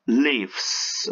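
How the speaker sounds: "lives" said "livz", with an i sound; verb pronunciation of lives. Shown as a demonstration. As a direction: model "lives" as the verb, rhyming with gives. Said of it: "vamos a pronunciar como live".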